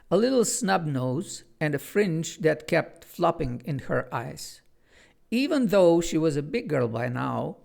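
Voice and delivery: unhurried read-aloud storyteller voice; story narration. Acted. Author reads his children's book to viewers, measured storytelling. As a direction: tell it like a bedtime tale.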